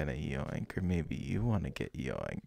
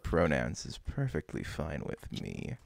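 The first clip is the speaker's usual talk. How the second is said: ara ara voice; 3 semitones higher, 4 dB louder than usual. Acted. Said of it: "I had to break the Ara Ara voice".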